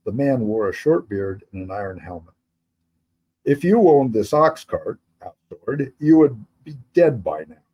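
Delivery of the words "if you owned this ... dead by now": a hint of a hard-edged captain; lightly voiced threat from the leader; a lightly voiced stern soldier.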